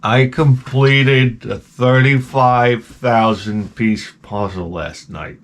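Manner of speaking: very slow, drawn-out boast; savored slowly. Shown as a demonstration. Telling a coworker about the puzzle on break, savored slowly. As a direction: stretch out every word, savoring it. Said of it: "you say it slowly".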